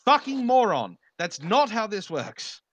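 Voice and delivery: mock outraged insult; Undoomed impression. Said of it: "to quote Undoomed once again".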